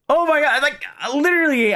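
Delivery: high, exasperated laugh-voice; exasperated squeal. Real, not acted. Streamer squealing in disbelief at her bad luck. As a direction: squeal in mock despair. Reacts to losing coin flip.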